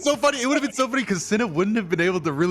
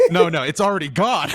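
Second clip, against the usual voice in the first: laughing quote; 2 semitones higher, 5 dB louder than usual. Retold or imitated. Retelling the tow call, laughing. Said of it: "and Cinna went".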